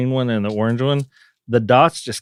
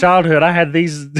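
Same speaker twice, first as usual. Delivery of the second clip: excited echo; 7 semitones higher, 6 dB louder than usual. Real, not acted. Echoing host excitedly.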